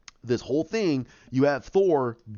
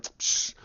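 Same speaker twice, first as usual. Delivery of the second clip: dismissive "psh" scoff; Thanos; 4 dB quieter than usual. Retold or imitated. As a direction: puff it out like a scornful villain. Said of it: "Thanos like".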